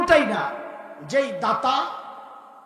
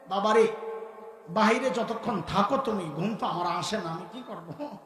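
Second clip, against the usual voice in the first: mother's tender reply; 3 semitones lower than usual. Retold or imitated. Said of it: "জবাবটা কি দিতেন".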